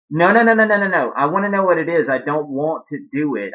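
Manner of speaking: high, loud burst of protest, then easing down; frantic refusal. Acted. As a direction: cut them off in a mock panic. A singer frantically refusing on the phone.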